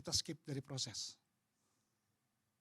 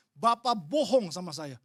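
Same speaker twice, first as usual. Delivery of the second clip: accusing; 5 dB louder, slower than usual. Retold or imitated. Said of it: "Saya mau marah sama Bapak".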